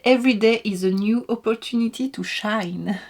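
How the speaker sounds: English read with a French accent. Real, not acted. Vlogger reads the calendar's little message, French-accented English. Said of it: "avec mon accent anglais".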